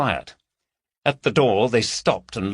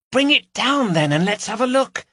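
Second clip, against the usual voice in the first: eager call; 4 dB louder than usual. Acted. Carol calls upstairs to Gary.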